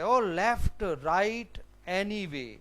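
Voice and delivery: mildly exasperated, starting high; testily. Acted. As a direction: act out impatient annoyance. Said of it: "تو بیری testily". (چڑ کر، ہلکے غصے سے)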